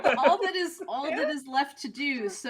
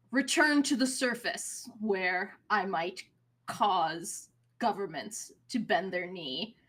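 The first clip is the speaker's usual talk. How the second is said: a lower, grand villain's vow; villain proclamation; 4 semitones lower than usual. Acted. Perilous Patel announcing his plan to the party, low and grand. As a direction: lay out the scheme with low, measured menace. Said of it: "and says".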